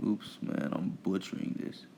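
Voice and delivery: under-the-breath mutter to self; whispered aside. Real, not acted. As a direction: whisper it to yourself, annoyed. Muttered aside while fumbling.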